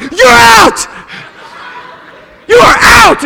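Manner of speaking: high, very loud out call; triumphant umpire shout. Retold or imitated. Boyfriend calling girlfriend out at second, hammed-up shout. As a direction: bellow the call with gloating force. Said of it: "I'm like".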